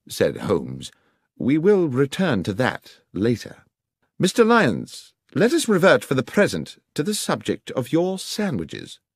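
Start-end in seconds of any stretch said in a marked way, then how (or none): 1.4-9.0 higher, commanding detective voice; raised, deliberate pitch of an interrogating detective; detective questioning. Acted. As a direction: take control as a brisk investigator. Voices Holmes questioning the guard.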